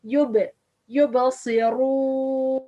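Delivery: "yubasiru" with a bounced, echoing b; slow "yubasiru", release the b with a small bounce; ba with qalqala. Shown as a demonstration. Teacher models qalqala on ba, bounced b. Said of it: "ba which have sukun".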